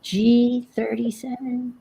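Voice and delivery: high, drawn-out number calls; bingo caller. Retold or imitated. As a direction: call the numbers out like at the bingo hall. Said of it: "And I was a bingo caller".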